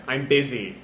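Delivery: low, soft brush-off; quietly fed-up refusal; tired of him. Acted. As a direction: dismiss him wearily, voice dropped. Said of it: "Whisper just tired of him".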